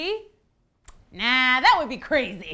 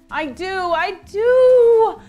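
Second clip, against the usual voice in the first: louder, drawn-out eager plea; desperate pleading; 4 semitones higher, 8 dB louder, slower than usual. Acted. Woman begging the elf for help, desperately eager. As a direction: build to a long wailed insistence.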